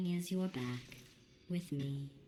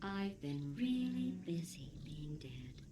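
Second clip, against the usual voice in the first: whispering; slower than usual. Acted. Weak waking robot voice.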